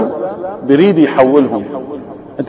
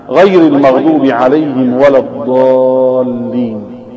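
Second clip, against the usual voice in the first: Quran recitation; 3 semitones lower than usual. Acted. Son recites Quran to his father, chanted recitation. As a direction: intone the verses with reverence, melodic at the close.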